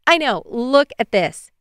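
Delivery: high, loud, drawn-out enthusiasm; excited agreement. Acted. Amaya turning her screen to show Bailey, excited. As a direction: gush and stretch the words.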